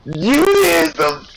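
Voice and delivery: high-pitched mocking echo; mock exclamation. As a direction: echo it back high, teasing. Mockingly echoes the other player.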